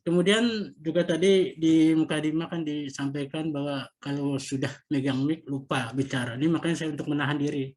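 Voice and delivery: muffled behind a face mask; talking through a mask. Real, not acted. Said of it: "izin ya pakai masker".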